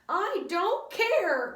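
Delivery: high, very slow, loud protest; crying out. A narrator's reading. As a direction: wail it at the teacher. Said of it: "cried Dana".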